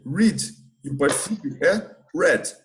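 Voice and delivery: first read said as "red", then read said as "red" again for the participle; two pronunciations of read. Shown as a demonstration. Teacher to class, showing how read sounds, slowly. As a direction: say read as "red" both times, slowly and clearly. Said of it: "Mas se pronuncia diferente".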